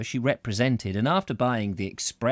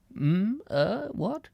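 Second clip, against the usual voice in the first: startled, higher, roused from rest; jolted out of his thoughts; 11 semitones higher, much slower than usual. A narrator's reading. Squales startled by her question, higher. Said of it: "Mister Squales was started".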